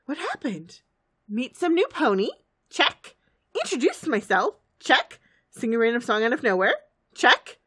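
high, bouncy checklist voice turning baffled and loud; high-pitched self-questioning, building to loud dismay; Pinkie Pie. Acted. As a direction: tick items off in a high cartoon pony voice. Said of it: "Pinkie Pie is running through a list".

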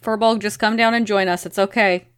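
calling out. Acted. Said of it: "I just call to her".

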